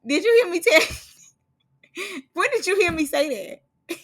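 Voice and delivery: laughing through a high African accent, mimicking the cameraman; imitating the African cameraman's accent; African accent impression. Vlogger mimics the African cameraman with an African accent. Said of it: "once you hear his accent".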